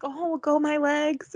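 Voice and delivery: high-pitched take on mom; imitated mom. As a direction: mimic mom cooing a pet name. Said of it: "she's like".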